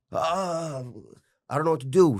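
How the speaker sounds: imitating a lost, worried self; helpless worry. To the host, mimicking his old panicked self, high anxious fretting.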